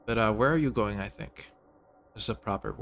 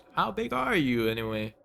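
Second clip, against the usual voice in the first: laughing; 3 semitones higher than usual. Real, not acted. Laughs asking game character.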